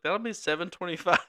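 lightly mocked carhop announcing the bill; quoting the drive-in lady. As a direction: raise your voice into the server's price call. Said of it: "she's like".

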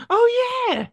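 sudden high gasp of remembering; oh yeah, it just came back to you; a real gasp of surprise; surprised. Real, not acted.

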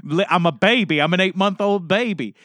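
mock pleading. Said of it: "I asked".

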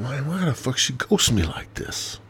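venting disbelief at being ghosted; exasperated inner rant. Retold or imitated. Talking to himself about the ghosting, exasperated. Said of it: "so I'm thinking".

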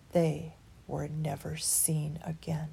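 slow, hushed whisper; ominous whisper. A narrator's reading. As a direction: whisper it like a spooky secret. Ominous ending for children.

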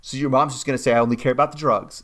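imitated sarcastic comeback; mock realisation, then a quick dig; Tracy, sarcastic. Woman retorting about what mom will say, sarcastic. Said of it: "the way she sarcastically is like".

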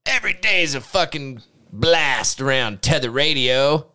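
hint of a Charles Manson; lightly voiced cult leader; Charles Manson impression. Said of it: "That was my best, uh, impression of Charles Manson".

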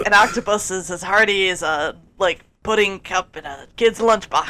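folksy wisdom. Retold or imitated. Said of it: "make it sound folksy".

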